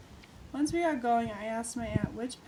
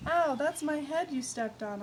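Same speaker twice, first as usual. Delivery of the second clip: yelling; 6 semitones higher, 5 dB louder than usual. Acted. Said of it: "I yelled".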